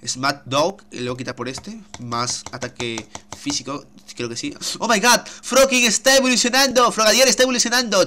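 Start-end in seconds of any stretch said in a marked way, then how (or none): 4.8-8.0 excited shout. Real, not acted. Pokémon evolving on screen.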